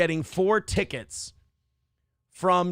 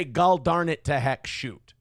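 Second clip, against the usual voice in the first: Fargo accent demo. Shown as a demonstration. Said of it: "I'm supposed to say".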